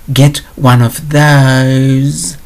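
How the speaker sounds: lightly mimicking a whine; mock whine. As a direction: drawl the last word out in a mock whine. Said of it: "This whiny voice where you stretch it out".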